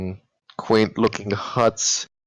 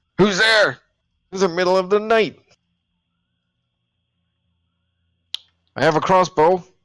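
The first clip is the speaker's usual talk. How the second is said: very high, shrill, swooping, disgusted-sounding yell; 9 semitones higher, 5 dB louder than usual. A narrator voices someone yelling through a door at night, in Vlasny's disgusting yelling voice. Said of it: "the disgusting voice of Vlasny from inside yell out".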